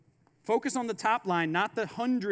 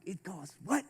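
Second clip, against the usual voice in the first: soft stunned whisper of a shocked buyer; lightly mime the price shock; a hint of a shocked buyer; 5 dB quieter than usual. Investors shocked by the price, soft whisper.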